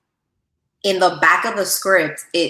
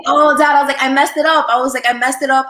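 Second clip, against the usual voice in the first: retold crying; 7 semitones higher, 5 dB louder than usual. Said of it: "but I was crying".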